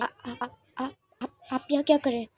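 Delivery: stammering, shaken; flustered stutter before an important guest; trembling voice. Acted. Mrs Jin, startled by the visitor, stammers with a trembling voice. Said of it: "कपकपाती आवाज़ में कहती हैं".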